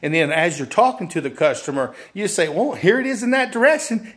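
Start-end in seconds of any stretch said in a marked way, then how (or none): 2.5-4.1 high, obliging demo voice; helpful salesperson. Acted. Salesperson directs customer to the sofas, helpful and high. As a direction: guide the customer along in a lifted voice.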